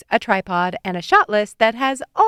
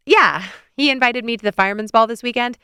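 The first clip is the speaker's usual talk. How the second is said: "Yeah, he invited me to the Fireman's Ball this weekend" ending on an unsure upward lift; phrase the news as if asking permission; like a question; 4 semitones higher, 4 dB louder than usual. Acted. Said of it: "I say it like a question".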